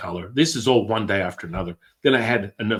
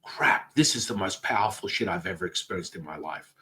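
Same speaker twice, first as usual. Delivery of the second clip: awed exclaiming; 2 semitones higher, 4 dB louder than usual. Retold or imitated. Retold awestruck exclamations.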